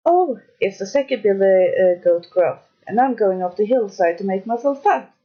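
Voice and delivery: lightly voiced bigger goat; a hint of a sturdier goat; middle goat voice. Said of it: "who hadn't such a small voice".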